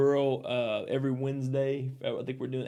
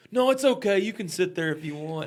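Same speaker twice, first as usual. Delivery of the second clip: fake politeness; 5 semitones higher than usual. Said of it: "kind of fake".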